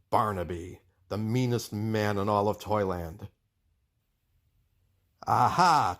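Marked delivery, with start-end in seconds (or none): 5.3-6.0 villain's aha. Acted. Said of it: "chuckled Barnaby".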